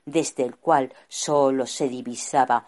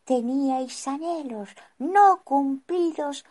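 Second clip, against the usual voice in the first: serene, higher wise wizard. Acted. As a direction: speak serenely and wisely. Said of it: "con voz serena".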